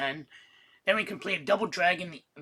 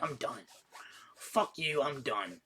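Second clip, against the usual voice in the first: muttered give-up; 3 semitones lower, 6 dB quieter than usual. Retold or imitated. Retold quitting the game.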